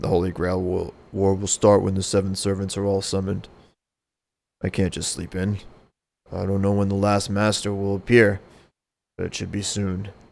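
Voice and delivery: lowest possible voice. Voicing a character, in the lowest voice possible. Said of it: "I think that's as low as I can go".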